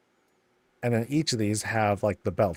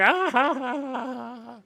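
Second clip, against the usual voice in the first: high mock villain laugh; evil cackle; 13 semitones higher than usual. Gnome laughing at screaming riders, high cackle. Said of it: "he's like".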